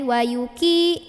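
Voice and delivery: "wa yuki" with an easy front k; relaxed, wrong k. Shown as a demonstration. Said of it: "jangan dibaca nyantai".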